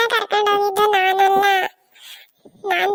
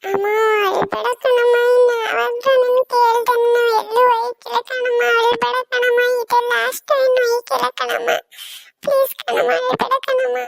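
tearful pleading; 4 semitones higher than usual. Acted. Child begs crying mother.

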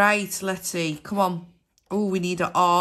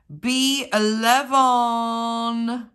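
bingo caller; 3 semitones higher, 4 dB louder, much slower than usual. Acted. Drawn-out bingo number call.

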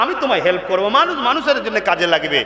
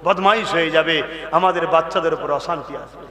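low, solemn preaching; grave warning; 7 semitones lower than usual. Acted. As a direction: warn them gravely.

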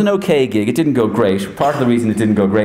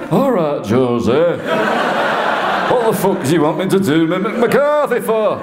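high, exasperated put-on football manager; imitated indignant outburst, drawn out; Mick McCarthy; 8 semitones higher than usual. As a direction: impersonate a blunt manager protesting. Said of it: "do the Mick McCarthy now".

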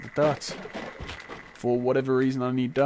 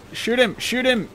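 high frantic repeated shout; panicking gamer; 10 semitones higher, 6 dB louder than usual. Real, not acted. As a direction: bark it out in panic.

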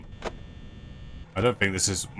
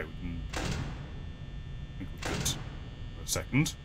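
whispering; 5 semitones lower, 11 dB quieter, much slower than usual. Real, not acted. Hushed while hiding.

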